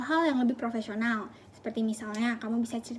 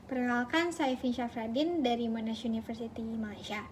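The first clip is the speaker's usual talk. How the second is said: slow, softer recited self-introduction; long-winded candidate; 6 dB quieter than usual. Acted. Candidate over-explaining their background to an interviewer, slow and long-winded. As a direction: drag it out quietly, item by item. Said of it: "terlalu bertele-tele".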